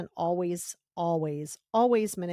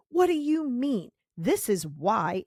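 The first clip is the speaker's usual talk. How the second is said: higher, louder, slower defensive snap; defensive retort; 4 semitones higher, 3 dB louder, slower than usual. Retold or imitated. Person in fight mode answering a no, defensive retort. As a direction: bristle and justify yourself. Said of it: "you immediately go into fight".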